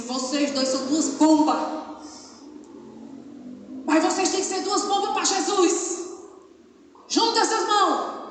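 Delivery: loud, high scolding of two hotheads; stern admonition. Retold or imitated. Director scolds the quarrelling couple, loud and high. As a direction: scold them like a boarding-school director. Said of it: "disse assim".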